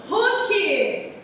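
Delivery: "Hulk" with an audible, breathed H; different H sound. Shown as a demonstration. Teacher pointing out to children a different sound, emphatic H demo. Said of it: "Tem um som diferente".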